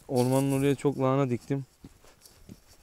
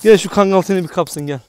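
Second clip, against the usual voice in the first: loud call; 5 semitones higher, 10 dB louder than usual. Real, not acted. Threatening the dog.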